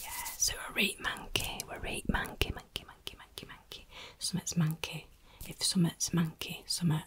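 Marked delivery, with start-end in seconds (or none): none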